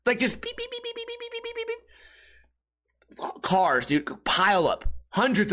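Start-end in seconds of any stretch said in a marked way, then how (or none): 0.4-1.8 tiny high, soft rapid squeaks; hamster scurrying beeps. Retold or imitated. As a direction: imitate little hamster feet with squeaky beeps. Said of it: "walking like, like hamsters".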